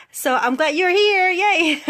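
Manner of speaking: high, loud voice breaking into a laugh; happy tearful. Real, not acted. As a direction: gush through rising tears. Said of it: "Oh my God, I'm crying".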